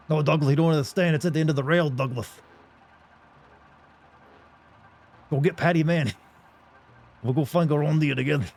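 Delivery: bellowing Professor Dink, over the top. Acted. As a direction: boom it out like an eccentric old professor. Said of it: "my Professor Dink voice".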